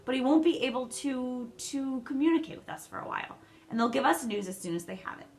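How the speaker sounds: upset pleading. A narrator's reading. Meg upset about father.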